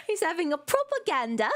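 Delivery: lightly hammed-up British accent; British-accented punchline on the edge of giggles; mock British accent. Streamer repeating a British pun for viewers, mock British accent. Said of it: "I love your accent".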